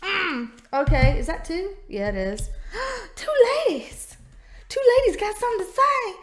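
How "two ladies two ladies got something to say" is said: high, fast, delighted squeal to the cards; excited greeting. Real, not acted. Greeting two queen cards excitedly.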